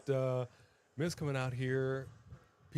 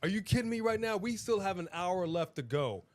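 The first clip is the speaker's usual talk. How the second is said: excited disbelief; 5 semitones higher than usual. Real, not acted. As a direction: half-shout it in disbelief. Excited about wild match moment.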